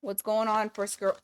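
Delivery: trips over the word; stumbling, tongue-tied. Real, not acted. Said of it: "Why am I so fucking tongue-tied".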